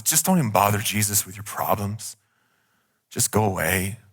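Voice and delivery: dismissive voice. Acted. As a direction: wave them away coldly. People dismissing your problems.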